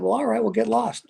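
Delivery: high, mock-breezy brush-off; dismissive retort. Pastor to quitting churchgoers, breezy and dismissive. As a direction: wave them off with a lilt.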